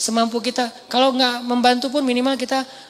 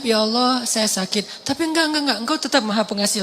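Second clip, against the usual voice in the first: humble plea. Retold or imitated. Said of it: "Sedangkan Nabi Ayub".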